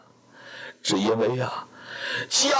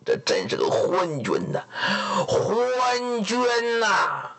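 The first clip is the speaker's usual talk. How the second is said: indignant outburst. Acted. Lord curses the king.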